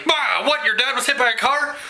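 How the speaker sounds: high, startled questioning, hammed up; mock shock. Imitating new subscribers hearing about dad's accident, mock shock. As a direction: act out a stunned double take, rising at the end. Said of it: "like hitting you in the face with the crazy".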